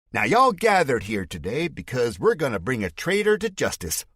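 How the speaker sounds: bad fake Southern accent over a microphone. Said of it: "The fake accent is back and worse than ever".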